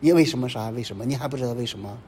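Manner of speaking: lightly acted whining lament, quickening on 为什么夺走我们这个; a hint of a sulking believer crying out to God; mock wailing complaint. Imitating a believer who wails to God over a lost battle, lightly mocking. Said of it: "而不是哭爹叫娘".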